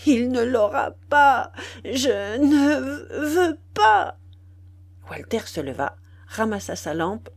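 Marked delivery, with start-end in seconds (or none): 0.1-4.2 exasperated. Acted. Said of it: "d'une voix exaspérée".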